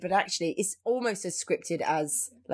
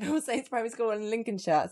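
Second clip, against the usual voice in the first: Lincolnshire accent; 2 semitones higher than usual. Shown as a demonstration. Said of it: "that's my Lincolnshire accent".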